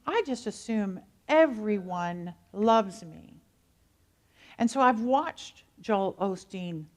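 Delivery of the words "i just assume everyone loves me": slow, lightly drawn-out Southern drawl; Texas drawl. Retold or imitated. Pastor quoting the famous preacher's reply, slow Southern Texas drawl. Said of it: "his drawl said".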